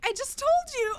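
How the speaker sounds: high, loud imitation of mom insisting; hammed-up indignant retort; mock exasperated mom. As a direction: protest it as the exasperated mother. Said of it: "she's like".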